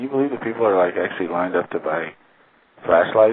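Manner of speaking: sarcastic tone of voice. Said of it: "like, being sarcastic".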